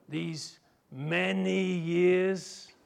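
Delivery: very slow, stretched complaint; dragged out. Acted. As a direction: drag the words out bitterly. Elder son's grievance, dragged out.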